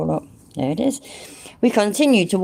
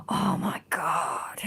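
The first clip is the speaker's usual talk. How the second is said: shocked gasp; 8 dB quieter, much slower than usual. Real, not acted. Shocked by the menu.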